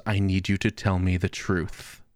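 low, slow, grave doctor voice; a hint of a solemn doctor leaning in; lightly voiced doctor. Doctor leaning in close to patient, low slow grave voice.

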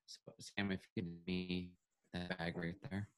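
choppy robotic audio; glitchy robot voice over a bad line. Real, not acted. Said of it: "You sound like a robot right now".

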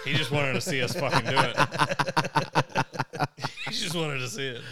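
talking through laughter; giggling while explaining; laughing. Real, not acted.

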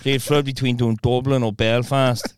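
wavering Irish accent, Dublin to Belfast; put-on Irish accent. Shown as a demonstration. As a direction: try an Irish accent, drifting north and south. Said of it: "Irish as well".

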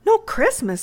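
high-pitched stunned disbelief; child's high, astonished echo; overcome. Acted. Amy hearing the boy had no Christmas, overcome. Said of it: "quite overcome".

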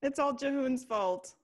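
high, exaggerated accusation; mock blaming. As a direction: pile on the blame in a lifted mock complaint. Mockingly echoing Devin's blame.

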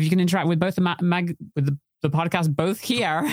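stumbling over the words with false starts; tongue-tied. Real, not acted. Host fumbling the live reminder to listeners, tongue-tied. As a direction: trip up on the read, restarting phrases. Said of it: "I can't talk today".

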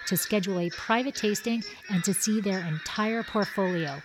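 ad read. Acted. Sponsor ad read.

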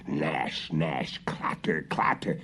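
faint whispered sound from a distance; far-off noises. A narrator's reading. Girl hearing the witch coming from afar, faint whisper. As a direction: hush it like something approaching far away. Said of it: "something was coming, she could hear".

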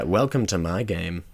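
slow go at a sinister host voice; half-successful ominous game-host imitation; attempted Big Brother. Trying out the voice converter's sound, slow and sinister. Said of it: "I can't do it".

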